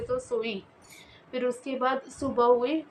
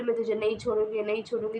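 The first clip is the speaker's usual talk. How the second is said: ghost's laughing threat; faster than usual. Acted. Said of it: "हँस रही थी".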